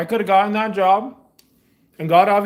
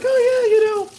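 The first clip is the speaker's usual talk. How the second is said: mock wishy-washy voice; 3 semitones higher than usual. Mocking people's wishy-washy answer.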